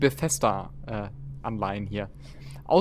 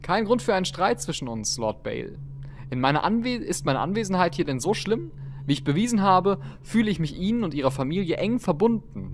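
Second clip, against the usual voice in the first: teasing; 6 semitones higher than usual. Acted. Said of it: "neckisch grinsend".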